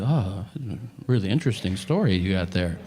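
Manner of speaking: low, falsely interested doctor; phony condescending politeness. Retold or imitated. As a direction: humour them with fake polite interest. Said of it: "where it's phony and condescending".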